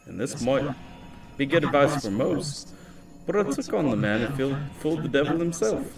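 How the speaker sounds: put-on the line redone in a light Irish accent. Retrying the opening for chat in an Irish accent. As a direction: give it an Irish lilt this time. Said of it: "We'll do the Irish accent".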